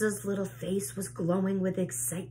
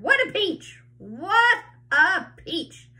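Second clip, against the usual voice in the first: gleeful cry; 11 semitones higher, 5 dB louder, slower than usual. A narrator's reading. Aunt rejoicing over peach.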